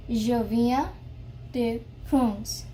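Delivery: "Je viens" rising, "de France" falling; pronunciation model. Shown as a demonstration. Teacher reads "Je viens de France" from the written pronunciation. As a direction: split "Je viens" and "de France" in two phrases. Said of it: "its pronunciation is over here".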